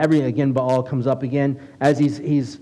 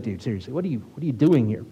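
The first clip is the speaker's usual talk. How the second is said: sarcastic God; 3 semitones lower, 3 dB quieter, faster than usual. Retold or imitated. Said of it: "that's the way I picture God".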